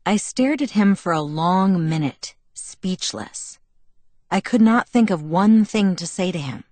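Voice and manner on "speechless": breathy hushed word; a breathless, stunned hush. A narrator's reading. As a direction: let it fall away, stunned. Narrator voices stunned silence.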